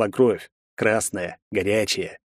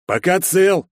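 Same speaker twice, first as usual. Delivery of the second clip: higher, louder sneering echo of пока цел; mocking echo; 9 semitones higher, 4 dB louder, slower than usual. Second thug echoes the threat, mocking and snorting. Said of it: "повторил второй и захрюкал".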